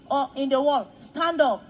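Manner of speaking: loud order to a crowd; commanding call. Retold or imitated. Man mockingly calling Daddy's father's followers up, commanding call. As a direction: push the command out loudly.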